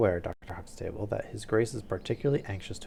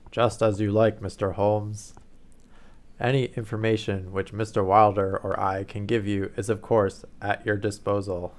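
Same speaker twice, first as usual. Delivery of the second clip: a louder, booming nobleman; booming Duke; 7 dB louder than usual. Acted. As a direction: let the Duke's words boom out like a dinner gong. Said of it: "I was already using my deep voice".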